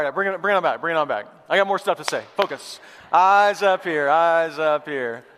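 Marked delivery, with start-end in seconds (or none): 2.4-5.2 loud call, slowing on the repeat; calling for attention. Real, not acted. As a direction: round up a chattering crowd, drawing it out. Calling congregation back to attention.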